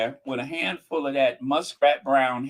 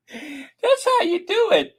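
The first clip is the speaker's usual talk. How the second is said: smug; 4 dB louder than usual. Real, not acted. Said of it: "boasting demo line".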